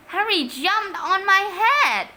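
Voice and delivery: a hammed-up snivel. A narrator's reading. Peter complaining to Dad, sniveling. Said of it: "sniveled a familiar voice".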